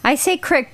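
crick with a short i; dialect pronunciation. Real, not acted. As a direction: say crick to rhyme with brick. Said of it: "the way you say a couple of words".

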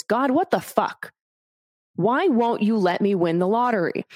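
a retold frustrated demand, half-acted; man losing patience with God, mildly angry. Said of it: "starts getting really angry at God and says".

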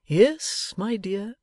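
doting Pa answering his daughter; fond father. Acted. Pa answers Bella.

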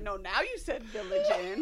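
laughing through the words; can barely get it out for laughing. Real, not acted. Wife laughs while retelling the mix-up with her husband.

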